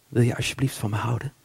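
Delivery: mild small pleading voice. Acted. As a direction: voice the little voice behind the anger. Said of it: "een klein stemmetje zegt".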